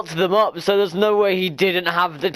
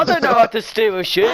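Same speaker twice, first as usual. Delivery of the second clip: raised, louder dopey dwarf; 5 semitones higher, 4 dB louder than usual. Acted. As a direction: play the dwarf dim and loud. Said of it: "the dwarf looks at you and goes".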